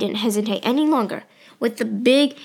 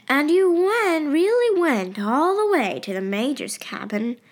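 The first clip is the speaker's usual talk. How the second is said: thoughtfully; 5 semitones higher than usual. Acted. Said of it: "said her mother thoughtfully".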